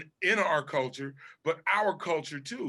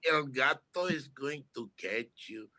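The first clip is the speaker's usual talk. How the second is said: high, slow put-on cartoon voice; high cartoon impression; imitating cartoon voices; 7 semitones higher than usual. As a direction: ham up a cartoon character.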